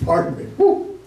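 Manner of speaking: laughing embarrassed apology. Real, not acted. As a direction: laugh it off, sheepish. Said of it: "watch my mouth".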